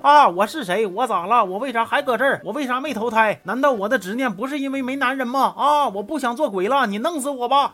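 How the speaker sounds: frantic despair, overacted; mock wailing. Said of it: "另一边女鬼也在叫". (女鬼崩溃地叫喊，越说越高)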